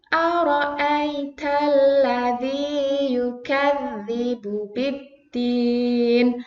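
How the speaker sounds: slow, drawn-out chanted verse; slow recitation. Shown as a demonstration. Teacher recites with the class, slow and drawn out. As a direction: stretch each long vowel.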